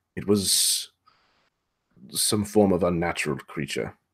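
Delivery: low, hushed voice. Voicing a pirate crew member speaking to the captain, in a lowered voice. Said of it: "he kind of lowers his voice and leans closer".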